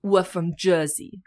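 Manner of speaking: slow, tentative Jersey accent; mild attempt at a Jersey accent. Shown as a demonstration. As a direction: passable Jersey accent, held back. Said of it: "When I do do an accent".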